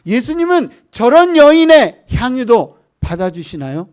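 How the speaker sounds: high, loud impassioned plea, without real sobs; retold tearful question. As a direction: imitate an overwhelmed woman's astonished asking. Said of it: "막 울기 시작해요".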